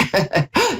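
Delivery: short laugh, playing a refusal; acted scoffing laugh. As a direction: laugh off a silly request. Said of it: "the hand is like".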